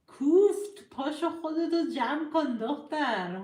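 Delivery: a sudden loud teasing yell; playful shout. Real, not acted. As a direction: snap it out teasingly. Playful scolding outburst.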